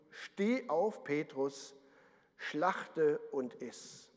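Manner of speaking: slow, low, solemn divine command; voice of God. Acted. A heavenly voice commands Peter in a vision, slow and solemn. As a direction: intone it slowly like a voice from heaven. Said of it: "eine Stimme sprach zu ihm".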